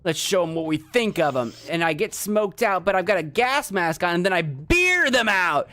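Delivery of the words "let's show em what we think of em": high, loud gloating taunt; mock the useless brother-in-law; sneering in-laws. In-laws gloating over the hero, loud high sneer.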